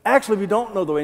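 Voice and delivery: a touch of snide sarcasm; sarcastic tone. Acted. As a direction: deliver it with a mild eye roll. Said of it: "Can you hear a little bit of sarcasm in there?".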